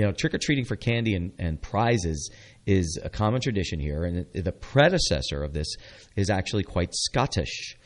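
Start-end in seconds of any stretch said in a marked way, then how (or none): 6.2-7.8 bad Scottish accent. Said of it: "that was a horrible attempt at an accent".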